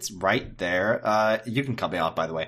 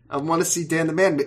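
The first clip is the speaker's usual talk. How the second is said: put-on whiny kid voice; 6 semitones higher, much faster than usual. Whiny childish demand.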